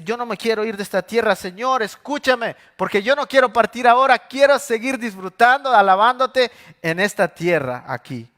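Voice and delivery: high, loud, hurried then slowing; desperate plea. Acted. David imploring God not to take him yet, loud high plea. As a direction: beg to stay, pressing hard. David begging to stay alive.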